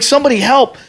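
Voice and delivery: high-pitched helpless cry, hammed up; mock plea for help. Reliving his plea for help.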